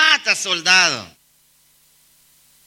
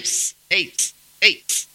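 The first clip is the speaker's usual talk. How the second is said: whistling at her; 2 semitones lower, 4 dB quieter than usual. Retold or imitated. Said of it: "Silbándole".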